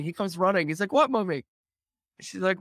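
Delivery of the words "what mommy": put-on high, raised little-kid reply; mock small boy answering a call; imitated child. Five-year-old running in to answer his mother, imitated child.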